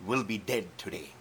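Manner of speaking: the giant raging at David and Israel; furious giant roar. Acted.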